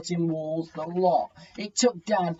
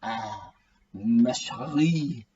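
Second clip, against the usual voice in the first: slow, hammed-up bad French accent; awful French accent; 5 semitones lower, much slower than usual. A narrator's reading. Dad romancing Mum in a lightly voiced bad French accent. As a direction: croon it in a deliberately terrible French accent. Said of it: "switching to an awful French accent".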